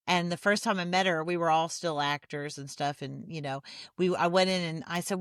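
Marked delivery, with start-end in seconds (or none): none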